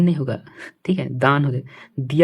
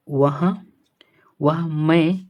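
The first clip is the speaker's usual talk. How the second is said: whisper; much slower than usual. Real, not acted. Teacher muttering while reading outline.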